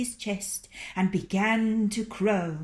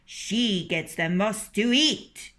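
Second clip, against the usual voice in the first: fussing hens; 3 semitones higher, 5 dB louder than usual. Acted. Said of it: "they fussed".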